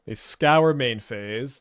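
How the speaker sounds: slow drawn-out Canadian scour; Canadian accent. Real, not acted. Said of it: "Sorry for the little Canadian accent slip".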